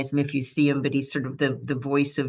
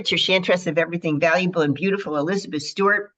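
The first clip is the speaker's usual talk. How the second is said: radio host greeting; 2 semitones higher, faster than usual. Acted. Radio host opens the live segment.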